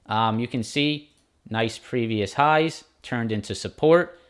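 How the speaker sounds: ordinary talk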